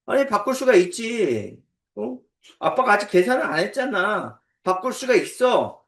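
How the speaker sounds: lightly acted child arguing back; defensive child. Child defending a changed ice cream order, lightly acted protest.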